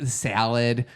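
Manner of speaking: slow demo of a Wisconsin accent. Shown as a demonstration. Showing how they said salad, Wisconsin accent. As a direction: draw out "salad" with a Wisconsin vowel. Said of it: "a pretty Wisconsin accent".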